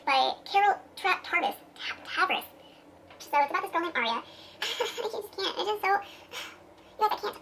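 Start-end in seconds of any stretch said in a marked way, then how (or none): 4.6-7.4 real laughter breaking up the words; slowed down by giggling, lost for words; giddy laughing. Real, not acted. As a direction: try to talk through helpless giggles. Too giddy to describe the book.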